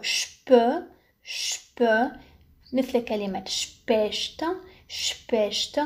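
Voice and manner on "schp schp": "شب" as sh straight into p; sp as shp. Shown as a demonstration. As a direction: sound out "شب" as isolated "shp". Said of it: "إس بي تنطق شب". ("شب" شين تليها p)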